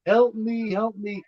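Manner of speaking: lightly put-on kid's cry for help; little kid voice. Podcaster mimicking the killer calling for help, imitated little kid voice. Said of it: "that little kid voice".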